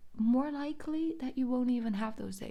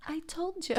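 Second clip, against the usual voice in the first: told you so; 10 semitones higher, 4 dB quieter than usual. Real, not acted. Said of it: "repeats gleefully".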